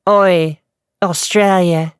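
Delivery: Australian accent kept in your own register; loud try at an Australian accent; Australian accent attempt. Shown as a demonstration. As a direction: try Australian without dropping your pitch. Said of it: "can I do that while keeping this?".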